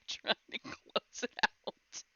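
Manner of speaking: words breaking into a chuckle; laughing advice. Retold or imitated. Wife explaining pop-ups to husband, laughing. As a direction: start chuckling as you retell it.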